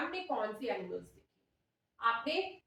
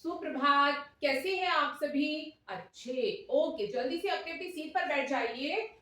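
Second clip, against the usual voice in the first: demo primary teacher; 3 semitones higher than usual. Pretend. Demo teacher greeting and quizzing her class, lilting teacher voice. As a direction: address little children clearly and encouragingly.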